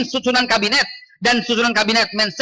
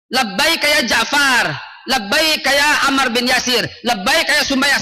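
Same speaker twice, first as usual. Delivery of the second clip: drawn-out rallying call, only mildly raised; rallying cry; slower than usual. Shown as a demonstration. Preacher modelling fair cries for all the martyrs, mild slow rallying cry. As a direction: call out each name slowly like a slogan. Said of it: "harus teriaknya adil dong".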